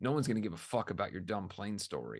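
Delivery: acted, very menacing, threatening, ominous delivery. Retelling what someone said before ending the Zoom session, imitating a menacing tone. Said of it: "said in a very sort of menacing tone".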